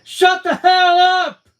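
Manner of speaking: slow, very loud, high furious scream. Acted. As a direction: tear into them with rage. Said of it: "she screamed at us".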